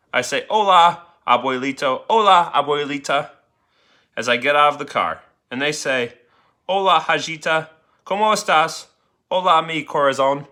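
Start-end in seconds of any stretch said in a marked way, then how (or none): 0.5-3.3 put-on girl's greeting. Girl greets grandparents in Spanish. 6.7-10.5 grandparents' greeting. Acted.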